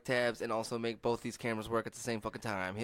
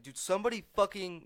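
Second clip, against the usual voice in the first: mock outburst; 9 semitones higher, 4 dB louder than usual. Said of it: "he's like".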